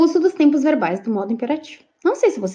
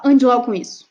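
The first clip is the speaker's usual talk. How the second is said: same order at usual pitch, firmly weighted; softer command; 4 dB louder than usual. Shown as a demonstration. Teacher demonstrating another way to give the order, softer command. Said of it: "ou eu posso falar".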